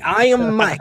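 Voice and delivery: high mock Dusty line; a hint of a proud Dusty; lightly voiced Dusty; imitating Dusty.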